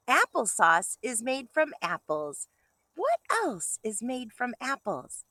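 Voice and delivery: bright storybook read-aloud; reading to children. Acted. Teacher reading a picture book to kindergartners, bright and lively.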